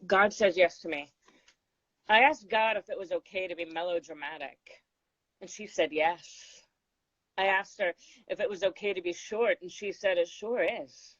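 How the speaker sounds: unhurried, poised recital of a poem; poem reading. Acted. Reading her poem to the host, measured recital.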